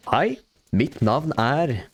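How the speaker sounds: slow, every word of Hei, mitt navn er crisply clear; crisp formal Norwegian. Shown as a demonstration. Showing how clear Norwegian sounds, slow crisp Norwegian.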